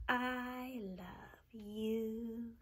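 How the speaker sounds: very slow loving whisper; tender whisper. Acted. Tender family line.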